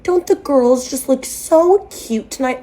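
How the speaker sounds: slow, put-on gushing; mimicking patronizing stepmom. Dad's girlfriend fussing over the girls, mock sweetness. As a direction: coo at them like small children, mockingly. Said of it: "kept referring to my sister and I as the girls".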